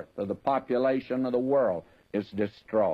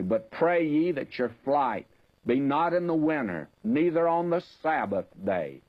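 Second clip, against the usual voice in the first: raised, solemn reading voice; scripture reading; 3 semitones higher than usual. Acted. Preacher reading the verse aloud to his congregation, solemn raised voice. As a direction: lift the verse above the sermon talk.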